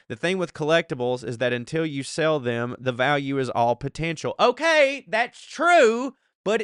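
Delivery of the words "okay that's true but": high squeak. Real, not acted. Reading listener's reply, then reacting.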